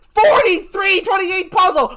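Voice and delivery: auctioneer. Acted. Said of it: "Are you an auctioneer?".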